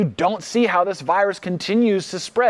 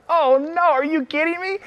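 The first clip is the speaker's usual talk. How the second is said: high, hammed-up gasp of alarm; mock horror at the murder hornets; 11 semitones higher than usual. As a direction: play a panicked newsreader.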